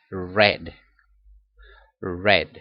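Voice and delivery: "read" said "red", twice; "read" como red, dos veces; past read. Shown as a demonstration. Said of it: "El sonido del verbo en pasado va a ser".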